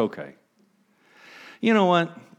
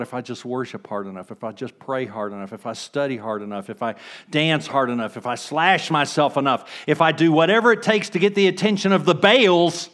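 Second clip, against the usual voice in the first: building mock striving. Voicing striving worshipper, building.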